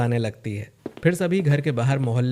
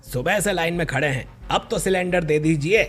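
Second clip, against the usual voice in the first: higher-pitched, insistent plea; pleading customers; 4 semitones higher than usual. Acted. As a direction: beg the agency for a cylinder. Crowd pleads at gas agency.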